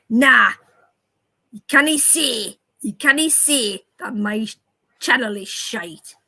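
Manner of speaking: loud "Nah" then a drawn-out "can't"; mimicked accent. Shown as a demonstration. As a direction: imitate a local bloke telling her off. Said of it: "I can actually do it quite well".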